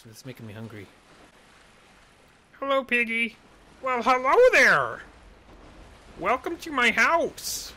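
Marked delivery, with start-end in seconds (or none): 2.6-3.4 high, loud sing-song hello; playful high greeting; cheery character greeting. Pretend. Voicing characters in a game. 3.8-7.7 high, loud, slow welcoming voice in an odd put-on timbre; hammed-up villain host; creepy pig host.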